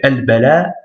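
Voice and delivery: "al-bala" with a long final a; careful reading, "al-bala" drawn out at the end; prolonged A. Shown as a demonstration. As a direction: stretch the last vowel of "al-bala". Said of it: "c'est la prolongation du A".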